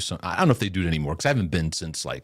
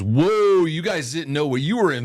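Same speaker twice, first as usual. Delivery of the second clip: mock astonishment; 5 semitones higher than usual. Warm-up comedian teasing the audience about a pastor, mock astonished. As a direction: play up the comic's shock, starting big.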